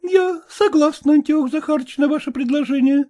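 a hint of a brisk, frank young lady; lightly voiced young woman. Young woman coolly tells her suitor to speak plainly.

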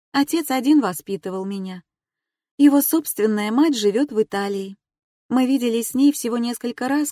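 lightly voiced young woman, earnest. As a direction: speak as the woman opening up. Female character voiced higher.

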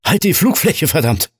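loud, high grumbling complaint. A narrator's reading. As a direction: snap at him from the cockpit. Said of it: "nörgelte Roger lautstark".

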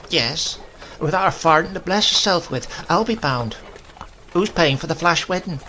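put-on tart, scornful old grandmother. A narrator's reading. Grandmother mocking the bride's poverty, sharp and scornful.

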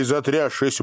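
plain reading voice

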